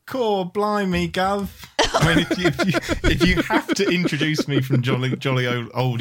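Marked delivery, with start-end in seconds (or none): 0.1-1.5 a light mock Cockney, slow; hammed-up Cockney greeting, drawn out; Cockney accent. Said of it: "gotta go with the Cockney accent".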